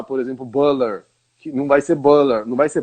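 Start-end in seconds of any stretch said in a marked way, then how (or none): 0.4-1.0 butter with an L-like sound for the T; wrong pronunciation. Shown as a demonstration. Teacher showing what not to say, "butter" as "buller". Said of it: "a pessoa não pode falar". 1.9-2.5 butter with L in place of the T; wrong pronunciation. Shown as a demonstration. Teacher warning a learner, "butter" mispronounced as "buller". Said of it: "não existe".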